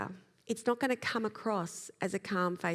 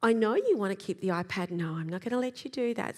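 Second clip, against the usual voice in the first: calm, tuneful, gently firm; with prosody. Shown as a demonstration. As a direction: let the voice rise and fall, steady. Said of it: "the up, down, back in our voice".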